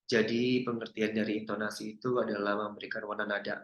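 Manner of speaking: flat, low and soft monotone drone, no rise or fall. Shown as a demonstration. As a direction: drone it low and quiet like a boring lecture. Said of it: "Dia nggak pengen nadanya yang kayak gini". (suara datar rendah dan pelan yang membosankan)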